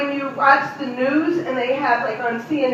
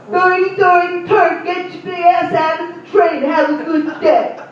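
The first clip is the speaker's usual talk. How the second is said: subway announcer; 3 semitones higher, 5 dB louder than usual. Retold or imitated. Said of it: "He'd go".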